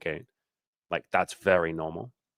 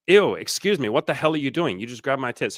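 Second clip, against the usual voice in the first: indignant protest; 6 semitones higher than usual. Retold or imitated. Imitating a woman confronting the man who grabbed her, indignant. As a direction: act out an appalled woman's outburst.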